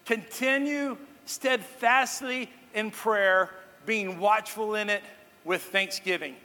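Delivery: slow, measured scripture reading. Shown as a demonstration. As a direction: read the verse slowly, weighing each phrase. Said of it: "verse two says it this way".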